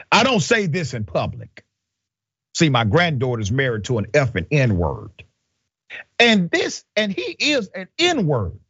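a hint of jailer impression. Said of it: "do it in the spirit of the jailer".

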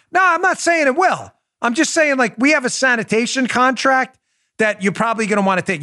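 fake-friendly denial like a hood; a hammed-up mobster playing nice; mobster reassurance. Mobster voiced in retold story.

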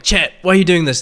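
mock yell at a stream chat; imitated yelling. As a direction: yell it like a streamer acting pissed off. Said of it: "He'll just yell at chat".

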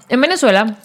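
talking with a mouthful; words around a bite of popcorn; mouth full. Real, not acted. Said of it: "estoy hablando con la boca llena de cotufas".

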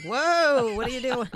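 high, loud startled outcry; shocked whoa. Retold or imitated. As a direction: gasp it out like the whole room is shocked. Everyone reacts to refusing Murdoch.

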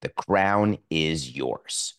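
emphatic sponsor read. Acted. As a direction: push the offer like a pitchman.

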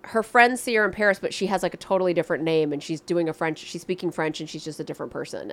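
ordinary talk, nothing marked

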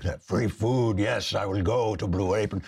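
lightly voiced entranced listener; mock eager listener. Host imitates listeners lured by free food, lightly mocking voice.

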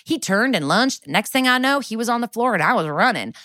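lightly sing-song storybook telling; cute folk tale. Retold or imitated. Suspect recounts the stabbing to detectives like a sweet fable. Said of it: "telling the story like it's, like, a cute folk tale".

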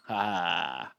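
quiet mock laugh; soft, hazy copycat laugh; imitated stoned laugh. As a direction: mimic their laughing back at them. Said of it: "do the exact same thing".

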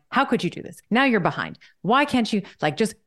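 high-pitched, exasperated scolding of herself; mock-berate yourself for skipping the workout; imitating inner critic. Former type A scolding herself over a skipped workout, high-pitched mock berating. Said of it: "It would have been like".

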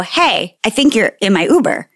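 light questioning lilt, rising at the end; tentatively flag down a stranger; retold courteous heads-up; polite first approach.

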